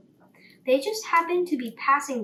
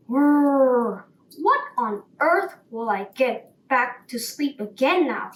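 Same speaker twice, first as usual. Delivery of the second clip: loud, cross lion cry; lion's angry cry; 5 dB louder than usual. Acted. Woken lion complains to the sparrow, loud angry cry. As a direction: growl out the complaint. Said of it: "he cried".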